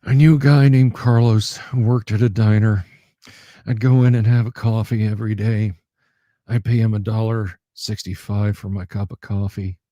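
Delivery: lightly voiced gruff loner, deadpan; lightly voiced stoic diner regular, deadpan; Ron Swanson impression. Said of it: "my best Ron Swanson impression".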